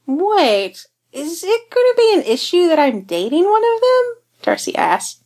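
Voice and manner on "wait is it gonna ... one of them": pitched high and worried; anxious high question. Acted. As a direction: blurt it out, nervous. Darcy's nervous question, pitch way up.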